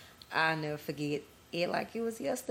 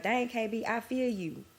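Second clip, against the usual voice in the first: imitating viewers; 5 semitones higher than usual. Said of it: "y'all gonna be like".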